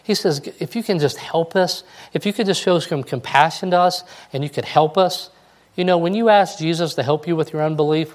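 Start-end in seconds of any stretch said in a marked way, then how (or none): 0.6-5.3 a pleading dad, voice pitched higher; lightly voiced father begging for his son. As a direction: beg for help as the desperate father. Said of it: "That's what this dad said".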